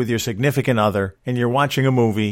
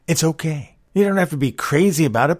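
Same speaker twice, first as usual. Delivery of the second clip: usual speaking voice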